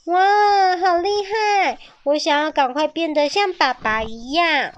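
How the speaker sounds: high, excited admiration; baby dinosaur marvels at father's skill; awed child. A narrator's reading. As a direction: gasp in wonder at father.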